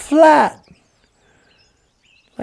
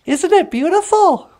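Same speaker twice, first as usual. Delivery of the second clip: higher, boastful show-off voice; boastful beaver; 5 semitones higher than usual. Acted. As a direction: brag about the tail to the bear. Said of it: "He was all like".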